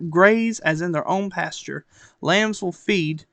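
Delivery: measured Bible reading aloud; projected, even read-aloud delivery; scripture reading. Acted. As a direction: read the verses out with deliberate phrasing.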